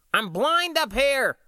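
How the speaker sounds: high, slow panicked cry. A narrator's reading. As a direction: cry out in shock, dragging it. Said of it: "John cried at the same time".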